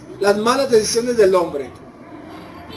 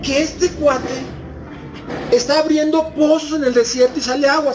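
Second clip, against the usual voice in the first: astonished muttered question; 3 semitones higher than usual. Retold or imitated. Quoting baffled jealous neighbours.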